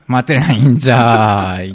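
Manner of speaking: put-on cranky old man who refuses to wait; impatient old geezer. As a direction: grumble like an impatient grandpa. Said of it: "せっかちじじい".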